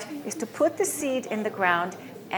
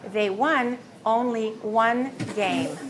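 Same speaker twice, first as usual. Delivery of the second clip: slow model sentence; slower than usual. Shown as a demonstration. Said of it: "pronounced exactly as won".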